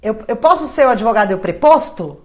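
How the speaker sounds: mock confused lawyer asking; clueless caller. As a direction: sound like you have no idea. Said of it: "a pessoa fala assim".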